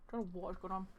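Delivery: talking through heartburn; a little uncomfortable from heartburn. Real, not acted. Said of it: "I have got horrendous heartburn".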